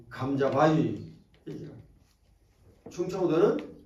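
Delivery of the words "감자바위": slow, stretched teasing nickname; playful slow drawl; drawn out. Acted. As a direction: draw the word out to tease the crowd. Preacher drawing out regional nickname.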